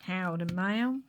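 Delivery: badly faked American greeting; mock-American howdy, lifting at the end; poor American accent. Sam at the wedding greets a lady, poor American accent. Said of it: "my really poor American accent".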